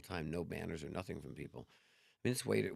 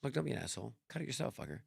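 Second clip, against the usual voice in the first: a mock-angry snap, a touch higher in pitch; rude snap at a neighbour; 8 semitones higher than usual. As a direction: toss it off like a rude neighbour, half-acted. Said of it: "Instead of going".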